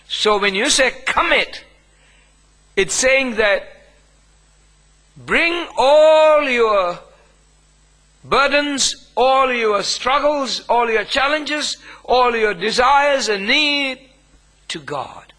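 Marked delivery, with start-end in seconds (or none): 5.2-15.3 higher and slow, leaning on each "all"; pleading with the congregation, higher and slow; rising preaching appeal. Acted. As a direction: stretch it out like a pulpit plea.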